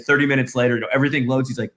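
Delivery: normal talking voice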